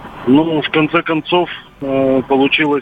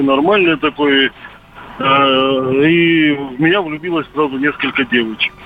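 over a landline phone. Real, not acted. Caller on radio phone line.

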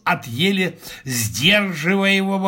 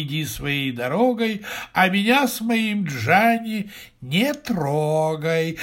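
incantation. A narrator's reading. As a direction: intone it like a spell, stretching the line endings. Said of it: "жена начала творить заклинание".

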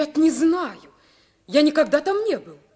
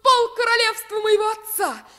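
eager outburst; 8 semitones higher, 4 dB louder than usual. Acted. Prince longing for freedom.

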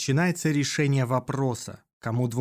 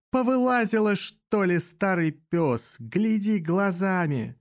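put-on high, angry yell at an old man; angry shout; 6 semitones higher than usual. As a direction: bark insults at the driver. Passerby curses the cabby.

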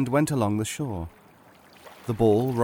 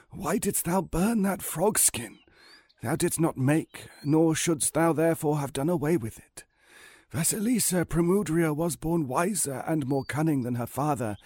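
put-on higher, softened old man's lament; 4 semitones higher than usual. Old man explaining the frog wife's curse to Ivan, higher-pitched. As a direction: counsel him as an aged, regretful stranger.

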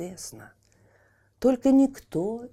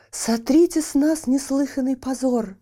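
high, loud furious outcry; angry shout; 7 semitones higher, 7 dB louder than usual. Acted. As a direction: hurl the accusation in rage. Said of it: "гневными голосами закричали".

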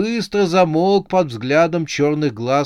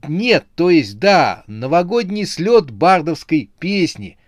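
higher, louder nervous excuse; flustered correction; 5 semitones higher, 6 dB louder than usual. A narrator's reading. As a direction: backtrack hastily, then overexplain. Flustered Октябрь answers the mockery. (растерянно оправдываясь)

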